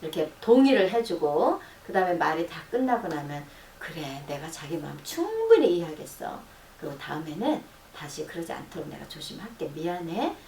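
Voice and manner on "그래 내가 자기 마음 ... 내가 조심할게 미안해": soft, quiet reassurance; tender apology. Shown as a demonstration. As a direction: promise gently before a hug. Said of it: "딱 안아주잖아요".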